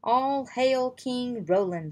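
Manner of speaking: loud, slow royal announcement; guard's shout. Acted. Guard hails the king before the crowd, slow loud proclamation. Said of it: "the guard shouted".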